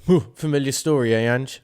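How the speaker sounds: teasing, cheeky jab at the manager; mocking interviewer. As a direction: needle him like a smug reporter. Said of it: "it's like you're taking the mick out of him".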